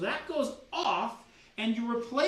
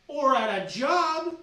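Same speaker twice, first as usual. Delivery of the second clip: louder rant; 5 semitones higher, 7 dB louder, slower than usual. Acted. Rising rant to viewer.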